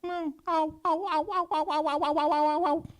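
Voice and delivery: very high, loud string of ows; a lion hopping about in cartoon pain; hammed-up ouch. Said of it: "He was like".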